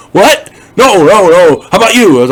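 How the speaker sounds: imitating a horrified woman backing away; panicked racist woman. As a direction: squeal out a no-no-no in mock panic. Racist woman refuses mouth-to-mouth.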